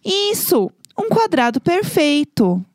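voz de professora, aguda e lenta; instructing voice. Retold or imitated. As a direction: mimic a teacher calmly guiding the class. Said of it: "eu ouvi uma voz, fala assim".

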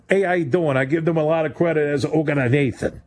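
a faint, fast British accent; tipsy-sounding British twang; half-hearted British accent on a cruise ship. Shown as a demonstration. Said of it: "It sounded a little British".

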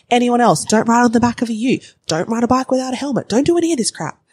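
high-pitched playful safety lecture; mock scolding.

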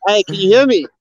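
muffled under a helmet; inside a helmet. Real, not acted. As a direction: talk with the helmet still on. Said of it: "let me take my helmet off".

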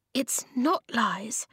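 high, slow, shaky denial; a touch of a tremble. A narrator's reading. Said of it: "she said shakily".

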